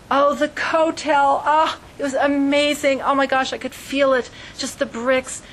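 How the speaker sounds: a lightly hammed-up swoon of awe; mock gushing tourist. Visitor raving about the Kotel, mock enthused. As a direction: gush like a visitor overwhelmed at the wall.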